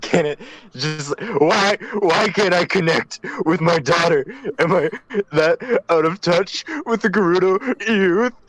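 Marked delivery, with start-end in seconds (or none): 1.4-8.3 high, sobbing, crying voice. Voicing a character who is downstairs crying: crying. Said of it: "Gannon's downstairs crying".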